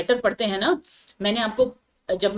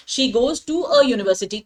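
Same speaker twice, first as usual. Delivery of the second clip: slow example; much slower than usual. Shown as a demonstration. Example sentence read out.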